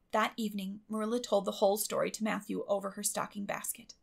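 usual speaking voice

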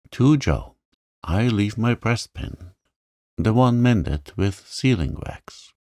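measured, formal reading of a will; deliberate pauses after each solemn clause; grave document reading. A narrator's reading. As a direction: read out a will with mock-solemn gravity. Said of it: "with praiseworthy gravity".

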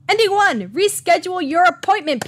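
high, loud ending announcement; announcer flourish. Real, not acted. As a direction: proclaim it like a host.

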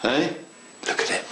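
slow, savoured, admiring look at that; excited admiration. Real, not acted. Modeller showing viewers his wall, slow and thrilled. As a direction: draw it out, relishing the sight. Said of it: "now I'm getting excited".

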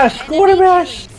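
high urgent call for cover; cover me shout. Real, not acted. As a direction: yell for your teammate to cover you. Calling teammate for cover. (grito pidiendo cobertura)

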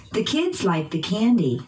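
put-on "kids" and "candy" stressed by pitch; noun stress. Shown as a demonstration. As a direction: drill model, peaks on "kids" and "candy". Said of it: "using pitch change".

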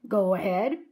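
understated pirate growl; a touch of gruff command; mild growl. Acted. Captain Bones lets Jack speak, lightly growling. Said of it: "growled Captain Bones".

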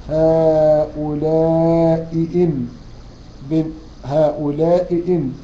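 very slow chanted هؤلاء إن; Quran recitation. Acted. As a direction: stretch the madd of هؤلاء. Recites the verse.

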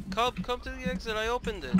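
yelling. Real, not acted. Chase, friends yelling to escape.

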